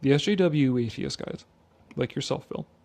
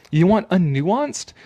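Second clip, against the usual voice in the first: mocking challenge; 4 semitones higher, 5 dB louder, slower than usual.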